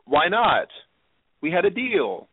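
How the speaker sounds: a touch of mock petulance; pouty. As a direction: lightly imitate a pouting dealmaker. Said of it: "he just sounded so pouty".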